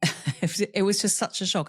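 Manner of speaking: laughing. Real, not acted. Laughing while recalling the shock.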